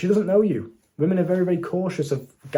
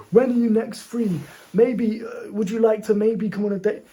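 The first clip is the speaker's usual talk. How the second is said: higher, slow, hesitant mock of a nervous asker; hammed-up shy guy fumbling an invite; timid guy asking; 8 semitones higher than usual. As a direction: play the unsure guy who can't commit. Mocks a timid date request.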